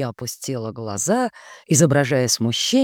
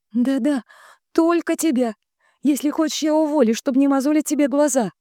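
sugary sister; 8 semitones higher than usual. A narrator's reading. Sister voiced high throughout.

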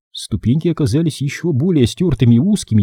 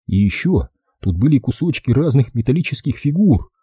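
ordinary delivery

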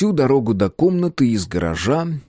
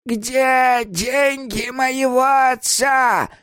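put-on very slow, high, raging old woman; old woman accusing a guest, furious cracking cry; furious cracking yell; 14 semitones higher, much slower than usual. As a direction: scream it at him, voice breaking. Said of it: "яростным, срывающимся голосом закричала".

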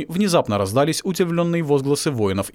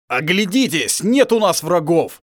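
a touch of a growl, louder on the end; mild growl; 7 semitones higher, 4 dB louder, slower than usual. Acted. Werewolf turns on his own people, lightly growled. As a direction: urge them hard, half growling. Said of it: "зарычал оборотень".

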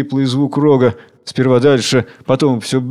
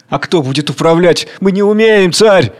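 higher, anxious plea to the king; pleading worker; 5 semitones higher, 3 dB louder than usual. Acted. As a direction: worker fears to rule. (робкая мольба)

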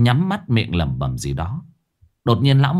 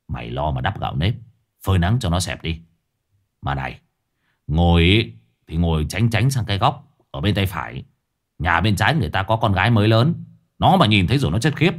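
put-on grim old sorcerer. Lão Năm instructs Sáu Bưởi.

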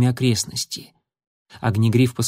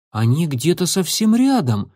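surprised mutter; 4 semitones higher than usual. Acted. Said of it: "удивлённо пробормотал Крутобок".

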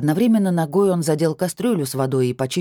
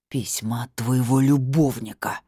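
seething. A narrator's reading. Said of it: "побагровел Любашин супруг".

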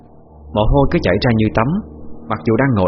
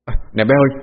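raised, urgent call to the staff; 4 semitones higher than usual. Acted. Restaurant owner calls staff to douse the burning incense, raised and urgent. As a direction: hurry the waitress to put out the fire. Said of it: "Nghe nó la lên".

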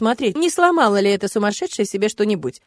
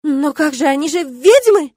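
high, loud indignant outcry; shocked exclamation, louder; exclaiming; 6 semitones higher, 6 dB louder than usual. A narrator's reading. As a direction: cry out in disbelief. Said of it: "воскликнула комендантша".

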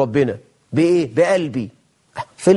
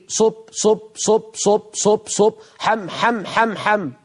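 mock rapid dhikr; 5 semitones higher, slower than usual. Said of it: "سبحة مترين سعادتك ماسكها لي وعمال تقول لي".

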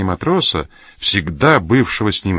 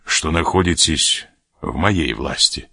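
offhand; 5 semitones lower than usual. A narrator's reading. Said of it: "небрежно повернувшись".

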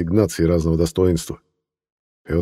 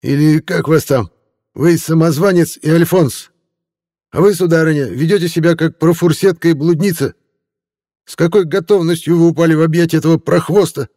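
high, fawning tipsy reporter voice; a drunk hack laying on the flattery, pitched high; a tipsy newspaperman in a raised voice; 11 semitones higher, 7 dB louder than usual. Acted. Reporter insults couple.

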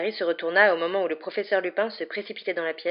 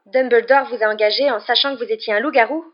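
raised, loud, incredulous question; flabbergasted; 5 semitones higher, 9 dB louder than usual. A narrator's reading. Boy learning headmaster hired a werewolf, flabbergasted. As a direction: ask it as if floored. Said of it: "dit Ron, suffoqué".

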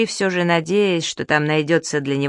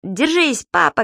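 higher, urgent call; shout; 4 semitones higher, slower than usual. Acted. Субастик calls up to his dad, urgent shout. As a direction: shout encouragement up. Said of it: "крикнул Субастик".

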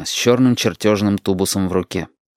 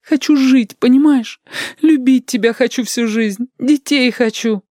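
much higher, near crying; tearful plea. Acted. Lidka begs Shut for a normal life, tearful and high. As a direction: beg him through tears.

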